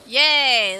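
loud happy cheer; real delight. Real, not acted. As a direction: shout it with joy.

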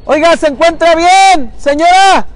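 loud, high, drawn-out shout across the water; slow, projected call to a stranger. Real, not acted. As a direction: holler to check on someone far away. Calling to woman lying in river.

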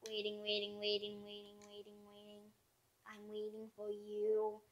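teasing taunt. Pretend. Taunting the opponent.

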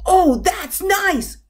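high, loud little frog exclamation; loud frog shout. A narrator's reading. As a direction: belt it out high as the big-mouthed frog. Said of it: "Again the frog shouted its big voice".

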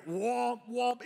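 high mock alarm womps; alarm imitation. Pastor repeating the phone alarm mid-sermon, high and mock. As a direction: honk it like a siren. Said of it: "you hear".

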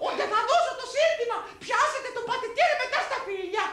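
high, put-on matriarch; gleeful high comic commander; mother-in-law voice. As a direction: issue orders in a high-pitched voice. Mother-in-law gives next order.

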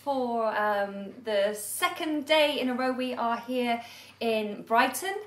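perky presenter pushing too hard; over-bright presenter voice. Shown as a demonstration. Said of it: "what the heck is going on with your voice".

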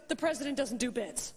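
flat, mock-serious security guard; deadpan serious. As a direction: deliver it totally seriously, no smile. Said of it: "totally seriously".

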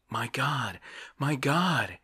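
rising joyful cry of delight. A narrator's reading. Dreamer crying out at his vision of paradise, delighted. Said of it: "he cried in the fullness of his delight".

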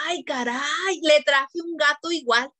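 fussy parent. Retold or imitated. Parent replacing dead pet.

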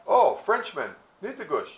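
high, loud "oh" of recognition; surprised greeting. Acted. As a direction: call out on spotting someone. Voices women spotting the Frenchmen.

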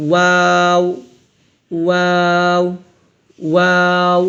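"ওয়াও" from two rounded lips with thin long aa. Shown as a demonstration. Teacher showing the lip letter, thin rounded "ওয়াও". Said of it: "ঠোঁট গোল করি".

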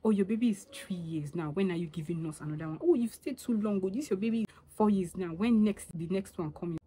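nosy auntie. Retold or imitated. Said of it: "What's the point going about".

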